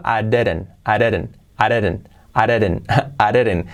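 "I didn't" run together as "a-reren"; fast "I didn't". Shown as a demonstration. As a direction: clip "I didn't" quickly into "areren". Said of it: "Dicho rápido". (rápido, "I didn't" como "areren")

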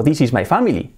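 Spanish-accented English, "family" as "FA-mee-lee"; each word apart with Spanish vowels; learner's Spanish accent. Shown as a demonstration. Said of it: "si yo tengo".

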